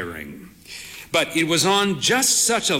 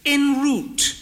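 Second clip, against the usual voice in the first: put-on higher, slow voice of a proud frail old lady; frail old mother; 12 semitones higher than usual. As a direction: play the bird-faced old mother, cautious. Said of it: "she said".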